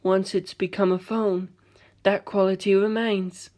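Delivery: soft, slow calm words; quiet calm. Acted. Giorno calmly studying the hat, quiet. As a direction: stay calm and cool. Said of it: "he said".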